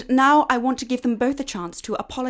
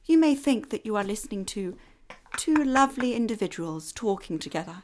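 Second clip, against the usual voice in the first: stern schoolmistress; 4 semitones lower, 6 dB quieter than usual. Acted. Miss Waite addresses listeners theatrically.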